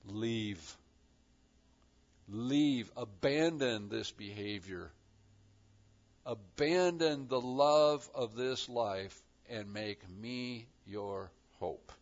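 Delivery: quiet, gentle voice of God; soft, simple call. Acted. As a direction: urge them softly to let go. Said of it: "God is saying very, very simply".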